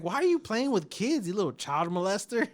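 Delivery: high mock wife accusing; imitating wife. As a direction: play the shocked wife. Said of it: "She's like".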